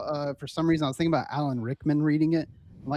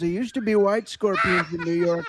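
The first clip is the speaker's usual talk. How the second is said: Trump impression. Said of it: "I'm not gonna hit play until you do something".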